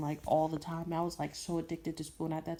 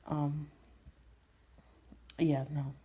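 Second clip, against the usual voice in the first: whispered. Real, not acted. Awkward refusal, whispered.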